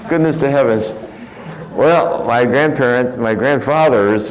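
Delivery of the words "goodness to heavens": exclaiming grandmother. Retold or imitated. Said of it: "My grandmother cut her thumb".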